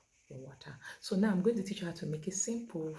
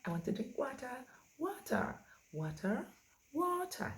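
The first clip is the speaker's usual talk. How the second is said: playing with WATER; 9 semitones higher than usual. Shown as a demonstration. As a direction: toy with WATER, varying the tune each time. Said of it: "Play with the word water".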